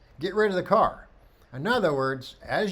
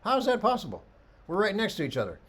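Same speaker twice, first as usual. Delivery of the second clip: high, baffled student voice; a student who can't believe his shot is worse; disbelief; 6 semitones higher than usual. Retold or imitated. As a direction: imitate a stunned student. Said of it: "And he goes".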